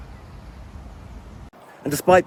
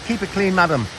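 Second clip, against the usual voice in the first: mock stern warning; 7 semitones higher, faster than usual. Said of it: "As I said".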